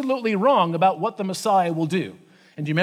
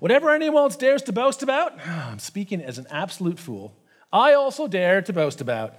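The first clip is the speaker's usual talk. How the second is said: ironic boasting. Acted. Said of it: "did you hear his, kind of the way he was describing it".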